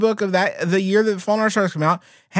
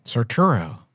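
low, calm dive guide voice; like a soothing scuba instructor; 11 semitones lower than usual. Pretend. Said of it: "sounds like a scuba instructor".

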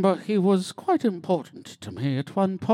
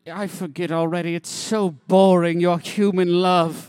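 bored dismissive; 5 dB louder than usual. Acted. Bored creature dismisses love.

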